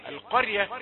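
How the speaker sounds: القرية said fast, ra slips thin; rushed wrong reading. Shown as a demonstration. Teacher imitating the mistake to avoid. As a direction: run القرية together so the r goes light. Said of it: "لكن لا تقل القرية".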